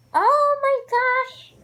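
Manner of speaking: high, slow, drawn out awe; excited gasp. Real, not acted. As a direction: let it spill out in delight. Amazed by the liner.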